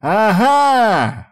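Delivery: long high gotcha cry; triumphant shout. A narrator's reading. Yuchi catching Izamu smiling, triumphant shout. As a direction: catch him out loudly. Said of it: "выкрикнул Ючи".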